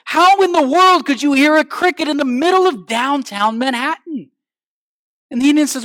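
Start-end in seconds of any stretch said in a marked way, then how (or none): 0.0-4.3 acted amazement. Amazed friend questions him in story.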